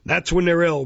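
loud self-important parish beadle; pompous bellowing beadle. Acted. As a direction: lecture her like a pompous official.

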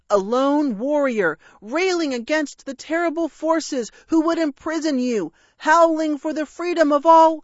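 high, loud heroic speech, building; grandiose declaiming. Acted. Dragon liberating a captive parrot, grandiose declamation.

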